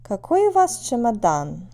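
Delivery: "Какой у вас чемодан?" as a question with a question word; question intonation. Shown as a demonstration. Teacher showing how to ask whose suitcase, question intonation. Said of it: "Again, listen to the intonation".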